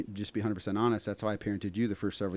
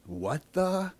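Stella; 8 semitones higher than usual. Retold or imitated. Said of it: "Stella always goes".

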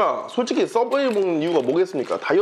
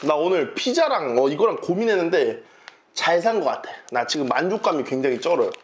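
chewing while talking; speaking between sandwich bites; mouth full; 4 semitones lower than usual. Real, not acted. Seen 1: Holds bitten sandwich at mouth, cheeks working while talking throughout.

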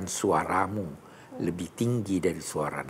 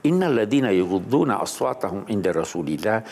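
loud opening, falling to usual level; Quran recitation; 4 dB louder than usual. Acted. Preacher reciting scripture to the host, Quran recitation. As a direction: recite the Arabic verse, starting strong.

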